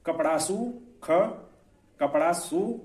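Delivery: कपड़ासु said as one wrongly joined word, rising; wrong joining. Shown as a demonstration. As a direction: run कपड़ासु together as a mistake. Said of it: "जबकि यहाँ देखिए क्या पढ़ देंगे हम".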